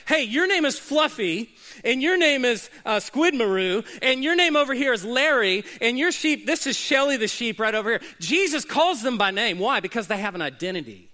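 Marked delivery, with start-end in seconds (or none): 0.1-8.0 higher and louder, cheerful calling out names; a hint of a fond shepherd; shepherd naming sheep. Shepherd calling each sheep by name, playful. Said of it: "It's like".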